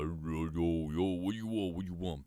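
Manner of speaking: a hint of a just-woken grunt; groggy morning mumble. To a caller after waking up, a hint of a sleepy mumble. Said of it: "I got a little bit of a deep voice".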